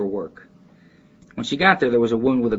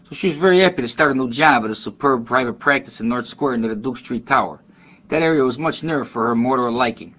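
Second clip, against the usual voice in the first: reading lightly like a Chicago neighborhood guy; Chicago neighborhood accent. Shown as a demonstration. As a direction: read it as a Near West Side Chicago local, not exaggerated. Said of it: "like guys in my neighborhood, without exaggerating".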